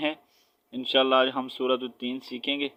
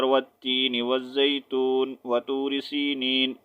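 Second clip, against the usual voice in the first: wrong linked reading. Shown as a demonstration. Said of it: "ایسا نہیں ہو کہ آپ".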